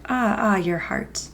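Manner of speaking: slow, drawn-out sigh; understated sighing lament; mild sighing. A narrator's reading. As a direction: echo her sigh in sympathy. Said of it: "They sighed".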